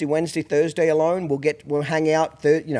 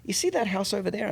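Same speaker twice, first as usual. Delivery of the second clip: real calm; 2 semitones higher, 8 dB quieter than usual. Retold or imitated. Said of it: "I just real calmly".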